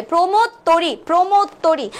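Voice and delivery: "প্রমোদ তরি" with rounded o like ও, as "promod tori"; closed o pronunciation. Shown as a demonstration. Teacher modelling the correct answer, "প্রমোদ তরি" with closed o. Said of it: "সংবৃত উচ্চারণ হবে".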